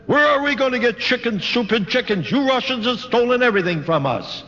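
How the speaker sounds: retold protest. German woman objects to Russian officer's order, retold in protest.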